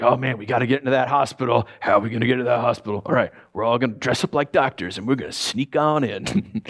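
lightly voiced scheming movie crooks, low and quick; a hint of a plotting movie gang; heist movie crew. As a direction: ham up a heist film plan. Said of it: "it's like a heist film".

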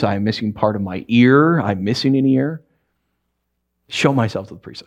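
lightly voiced low grumble; a hint of resentful grumbling; grumbling leper. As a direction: mutter it like a sore, bitter leper. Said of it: "going along grumbling".

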